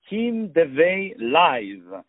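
"Kim Devey Live" said very slowly, each word apart; slow handle. Shown as a demonstration. Host giving guest's Instagram handle, slow and deliberate. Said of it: "repeats the Instagram handle".

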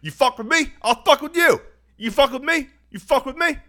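high, loud, ranting repeated threats; hammed-up furious screaming; screaming patient. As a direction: scream it like a raving man down the hall. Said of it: "somebody screaming, going".

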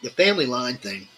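talking while slurping a drink; slurping between words. Real, not acted. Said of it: "sorry if I'm slurping anybody's ear".

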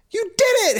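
high joyful cry; excited shout. Acted. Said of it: "Hansel shouted".

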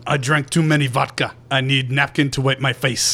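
put-on half-hearted Russian accent. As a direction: attempt a Russian accent, dropping the articles. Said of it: "how do Czechs talk?".

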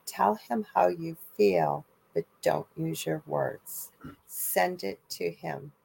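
retold nurse, calm and soft; soft slow instruction. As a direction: guide them gently, keep it hushed. Nurse quietly instructs the crowd.

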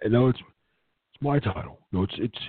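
hammed-up offended owner; mock indignant. Mock outrage at own title.

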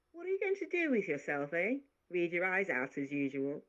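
a nosy maid poking fun; teasing maid. Acted.

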